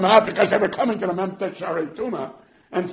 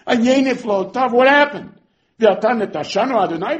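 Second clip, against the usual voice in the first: louder, higher; exasperated demand; 6 semitones higher, 7 dB louder than usual. Acted. Gideon demanding where the miracles went, loud. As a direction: demand an answer.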